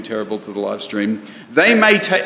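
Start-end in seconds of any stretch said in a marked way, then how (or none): 1.5-2.2 half-hearted quote. Retold or imitated. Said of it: "I won't do the accent either".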